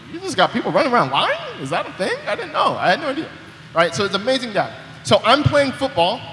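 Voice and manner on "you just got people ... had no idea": mock surprise. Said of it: "I'm like".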